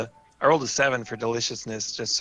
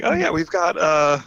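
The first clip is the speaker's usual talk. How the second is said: lightly voiced hostess, pitched up; slightly higher voice for a hostess; hostess character; 4 semitones higher, slower than usual. Game master as hostess listing her teas, lightly voiced.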